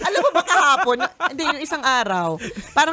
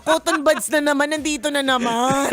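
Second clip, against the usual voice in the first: sarcastic; 3 dB louder than usual. Retold or imitated. Wife imitating herself nagging about stray cotton buds, sarcastic. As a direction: nag with sarcastic weariness. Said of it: "kasi sarcastic ako na parang".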